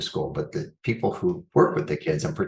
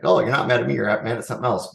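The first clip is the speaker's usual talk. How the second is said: higher, louder, patronizing reassurance; condescending; 5 semitones higher, 3 dB louder, much faster than usual. Acted. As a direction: talk down to them in a raised voice. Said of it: "this is what sounds condescending".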